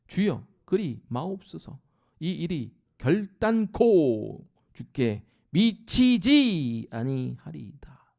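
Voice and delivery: slow, drawn-out plea that sinks to a whisper at the end; Peter pleading. Acted. Preacher voicing Peter protesting to Jesus, slow pleading. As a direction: beg him slowly, then let the last word fade to a whisper. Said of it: "이르되".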